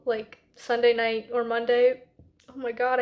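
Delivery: talking through the hiccups; interrupted by hiccups. Real, not acted. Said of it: "I have the hiccups".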